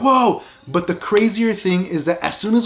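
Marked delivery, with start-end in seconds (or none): 0.0-0.4 high, startled mock "whoa"; freaked-out exclamation. Friends reacting to the scary face, mock freak-out. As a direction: imitate a group jumping in fright. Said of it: "we all freak out".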